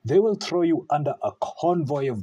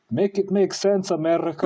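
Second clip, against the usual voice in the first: higher, louder fed-up appeal; exasperated plea; 7 semitones higher, 4 dB louder than usual. Real, not acted. Ranting at America about double standards, exasperated and loud. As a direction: throw up your hands at the whole country.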